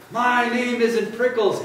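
high, slow storybook yell; yelling back. A narrator's reading. Grumpy cactus answering the jackrabbit, yelling back. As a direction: yell back in indignation, drawn out. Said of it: "Hank yelled back".

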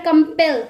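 कंपेल with weight on पेल; कंपेल, final syllable stressed and falling; stress on last syllable. Shown as a demonstration. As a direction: lean on the closing ल of कंपेल. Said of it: "last ल पे stress ज्यादा दिया जा रहा है".

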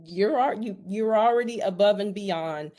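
a touch of teasing flattery; light sarcasm. Retold or imitated. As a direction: paraphrase it with playful sarcasm. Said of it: "Just a little sarcasm there".

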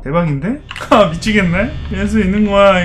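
ordinary talk

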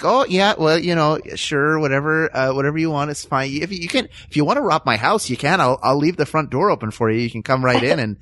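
meek, over-obliging Midwesterner; mock Midwest accent, eager to please and conflict-shy. Pushover Midwesterner welcoming a robber, meek friendly Midwest accent. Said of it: "that accent is like George McFly before he punches Biff".

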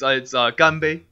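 "ganbei" said the Mandarin way, as a native speaker would; Mandarin pronunciation. Shown as a demonstration. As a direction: give "ganbei" its Mandarin sound, as if teaching a friend. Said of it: "how do you say cheers".

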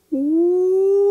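high ghostly woo; ghost howl. Acted. Dog scaring crooks in the barn, ghostly howl. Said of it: "I howled quietly".

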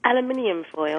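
"Aluminium" as al-yoo-MIN-ee-um; British "Aluminium foil"; British pronunciation. Shown as a demonstration. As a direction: say "Aluminium" with five syllables. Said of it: "Let me hear you say aluminium".

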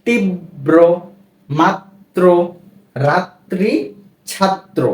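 তীব্র, মাত্র, রাত্রি, ছাত্র each split on a doubled consonant. Shown as a demonstration. Teacher giving examples of the rule, তীব্র, মাত্র, রাত্রি, ছাত্র with consonants doubled. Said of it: "উচ্চারণ হবে দুইবার বা দ্বিত্ব উচ্চারণ হবে".

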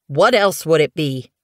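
snapped. Acted. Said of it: "Thistleclaw snapped".

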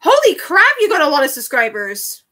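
shocked at the number; surprised. Real, not acted. Seeing subscriber count.

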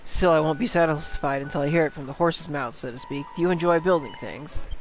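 lightly voiced jovial pirate skipper; teasing, chatty old sea-dog delivery; a hint of a piratical captain; skeleton pirate captain.

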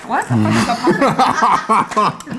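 words mushed by a full mouth; mouth propped open. Real, not acted. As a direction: mouth stuffed while talking. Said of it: "My mouth is doing too much".

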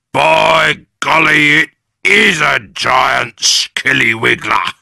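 slow, loud mock-amazed old man; Mister Twit. A narrator's reading. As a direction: feign astonishment. Husband scaring his wife.

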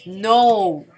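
a breathy unvoiced no; hushed groan of a no; whispered no. Real, not acted. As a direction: whisper the no in dismay. Quiet despair at game.

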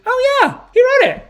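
very high, loud mock shout; imitated excited discovery. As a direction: cry it out high, as if just finding proof. Acted excited discovery on looking up.

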